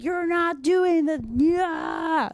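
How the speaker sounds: a light jab at the guy; guy correcting. Retold or imitated. Imitating the rough partner correcting her, mock. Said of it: "this guy was like".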